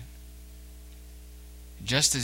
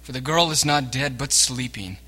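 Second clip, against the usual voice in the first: raised, firm "Make room"; commanding voice; 5 dB louder than usual. Acted. Jesus ordering the mourners out, firm and raised. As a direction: clear the crowd with authority. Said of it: "he said to them".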